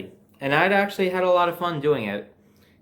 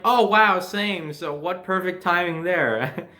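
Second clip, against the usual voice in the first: mock surprise; 4 semitones higher, slower than usual. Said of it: "they were like".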